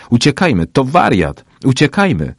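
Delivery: loud, high cry of alarm; panicked shout. A narrator's reading. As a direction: shout to get everyone running. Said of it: "krzyczała".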